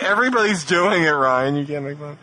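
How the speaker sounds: a light imitation of a co-host's teasing; mock co-host. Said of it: "Mike's like".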